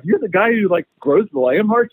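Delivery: high, thrilled question about lamb hearts; excited. Retold or imitated. Customer gushing to the farmer, high and excited. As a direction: sound giddy, like meeting a celebrity. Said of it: "he got so excited".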